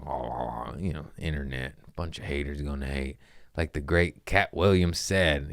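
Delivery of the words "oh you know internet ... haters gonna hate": dismissive mimicry. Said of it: "people are like".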